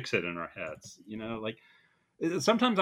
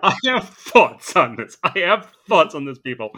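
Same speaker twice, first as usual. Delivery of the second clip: dramatic announcement; 4 semitones higher, 11 dB louder than usual. Real, not acted. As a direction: announce it like a big reveal. Loaded announcement.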